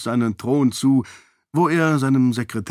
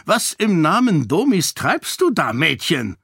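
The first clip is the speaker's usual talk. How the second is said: higher, burst out in surprise; startled outburst; 6 semitones higher than usual. Acted. King finding his daughter painting in the throne room, startled outburst. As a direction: blurt it out at the sight of the easel. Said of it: "entfuhr es dem König".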